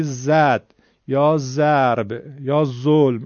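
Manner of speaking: slow, loud «زد یا ضرب یا ظلم», every first letter a Persian z; identical z sounds. Shown as a demonstration. Teacher mimicking the student, «ضرب» and «ظلم» with plain z. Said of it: "اینا رو همه رو یکی میگه".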